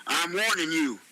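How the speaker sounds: understated stern ultimatum. Acted. Ron is tired of Tony's attitude, stern warning. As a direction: give a firm, mildly stern warning. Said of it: "Ron said in a stern voice".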